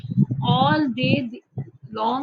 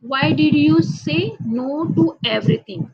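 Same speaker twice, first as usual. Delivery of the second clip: mother asking; 6 semitones higher, 5 dB louder, much slower than usual. Acted. Mother questioning her daughter.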